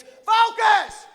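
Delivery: high-pitched mock sideline shouting; imitated overbearing dad yell; yelling sports dads. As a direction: holler orders at your kid on the field. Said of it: "They're yelling at their kids".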